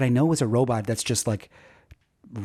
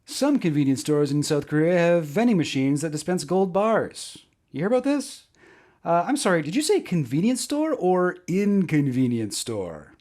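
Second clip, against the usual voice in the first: stand-up delivery; 2 semitones higher than usual. Pretend. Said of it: "deliver these jokes as best as I can".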